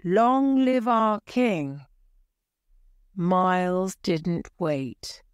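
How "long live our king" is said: crowd shout. A narrator's reading. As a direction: cheer the new king. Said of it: "all the people in the hall shouted".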